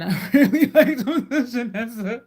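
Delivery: laughing loudly through the words. Real, not acted. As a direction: giggle the words out. Laughs at her own remark.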